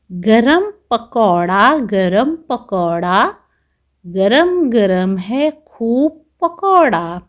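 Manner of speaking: slow sing-song rhyme for little ones; children's rhyme. Acted. Teacher reciting a pakora rhyme to pupils, slow sing-song. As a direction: chant it slowly like a nursery verse.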